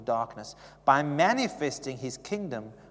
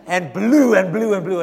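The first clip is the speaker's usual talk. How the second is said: laughing; 4 semitones higher, 15 dB louder than usual. Real, not acted. Laughing while telling of gust.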